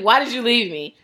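lightly voiced phone assistant echoing the plea; a playful take on Siri's voice; imitating Siri. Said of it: "my Siri came on".

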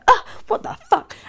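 exasperated but cracking up; laughing mock outrage. Both friends annoyed, retold.

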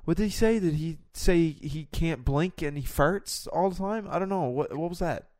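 high, flustered questioning; mock confused panic. Acts a confused trainee surgeon.

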